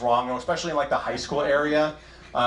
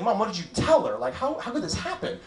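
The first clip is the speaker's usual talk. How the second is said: put-on upset kid whine; 8 semitones higher than usual. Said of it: "I was like".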